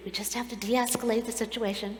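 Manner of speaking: soft, placating imitation; quietly defuse it like cabin crew; hushed retold reassurance; calming flight attendant. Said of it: "trying to de-escalate the situation".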